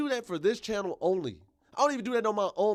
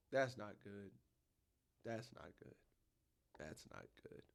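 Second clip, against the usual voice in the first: from quiet down to a whisper; fading to a whisper; 7 semitones lower, 18 dB quieter than usual. Real, not acted. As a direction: let it die away into a whisper. Dismayed repetition fading out.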